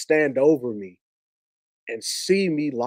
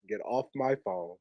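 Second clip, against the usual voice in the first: soft, controlled retold order; very calm; 3 semitones lower, 11 dB quieter than usual. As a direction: give the order quietly, with calm restraint. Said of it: "he was very calm voice".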